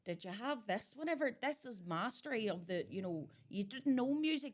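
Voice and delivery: hammed-up elderly know-it-all; old woman scolding the young about music; mock old person lecture. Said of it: "we're gonna go".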